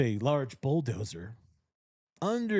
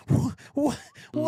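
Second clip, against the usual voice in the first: high stammering wail of disbelief, much higher and louder; mock-bewildered high wail; baffled stammer; 14 semitones higher, 4 dB louder than usual. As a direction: stutter out your confusion, almost crying. Narrator voicing his own baffled reaction.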